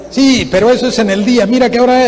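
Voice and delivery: mock-indignant scolding; acted stern scolding. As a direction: imitate an angry grown-up telling a child off. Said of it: "y era bravo".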